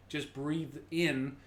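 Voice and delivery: slow, drawn-out breathing cue. Shown as a demonstration. Coach guiding a class through a slow inhale. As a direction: stretch it out to model a slow inhale. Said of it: "now slow".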